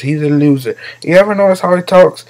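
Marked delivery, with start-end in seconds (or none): 0.0-0.8 light mocking politician impression; Donald Trump. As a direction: lightly imitate a dismissive politician. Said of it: "Donald always goes like this".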